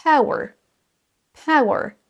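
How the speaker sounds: power as pa-oo-uh; careful model of power; A-OU-E glide. Shown as a demonstration. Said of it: "La même chose pour".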